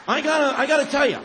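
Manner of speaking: loud, high-pitched preaching cry; preaching shout. Real, not acted. Preacher shouting his love of America to the crowd, loud. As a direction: proclaim it to the whole hall at full voice.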